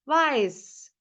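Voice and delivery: "Weiß" stretched a little long; drawn out. Shown as a demonstration. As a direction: lengthen "Weiß" slightly for the learners. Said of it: "Biraz uzatabilirim".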